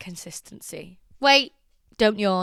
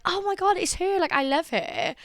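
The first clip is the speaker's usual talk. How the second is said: much higher starstruck squeal; excited fans; 9 semitones higher than usual. Retold or imitated. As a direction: gush like you just spotted your idol. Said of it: "energetically and happily because they're like".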